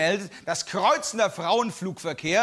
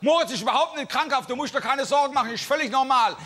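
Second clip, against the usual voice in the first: Gottlieb quoted; 6 semitones higher than usual. Retold or imitated. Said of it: "Gottlieb sagt".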